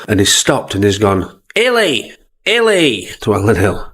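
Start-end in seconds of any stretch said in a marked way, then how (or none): 1.5-3.1 calling out. Retold or imitated. Clough calling out to Alan Hill.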